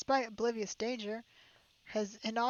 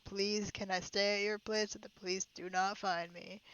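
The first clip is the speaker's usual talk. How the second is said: dramatic interruption; 7 dB louder than usual. Acted. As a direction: stop everyone with a big theatrical shout. Character barges in dramatically.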